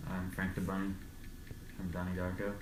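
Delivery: muffled behind a full face mask; talking through a mask. Real, not acted. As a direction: speak from inside a bunny mask. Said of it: "'cause he's talking through a mask".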